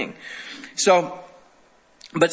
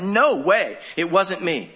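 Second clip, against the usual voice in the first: firm acted denial, pitched up at first; slower than usual. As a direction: shut the accusation down. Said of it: "he was just very firm about it".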